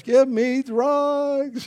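very slow, high mock scream; long-drawn mock scream without real volume; retold scream. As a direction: stretch each word into an imitation labor wail. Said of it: "screaming out in the house".

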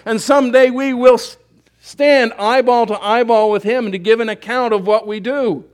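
loud, driving pulpit delivery; preaching at full force. Acted. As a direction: build it up like a revival sermon.

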